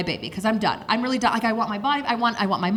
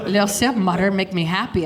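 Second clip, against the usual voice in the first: low, eerie daughter begging mother; creepy child; 4 semitones lower than usual. Retold or imitated. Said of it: "makes it sound even creepier".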